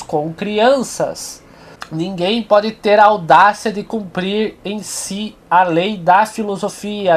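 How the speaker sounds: emphatic, measured literary reading; reading aloud. Acted. Lecturer reads Nietzsche's passage to viewers, emphatic reading aloud. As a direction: read the passage out with deliberate, projected phrasing.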